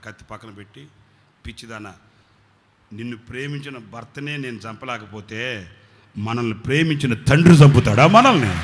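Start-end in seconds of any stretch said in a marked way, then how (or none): 1.5-8.6 tender rebuke. Retold or imitated. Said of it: "అప్పుడు చెప్పాడట pastor గారు".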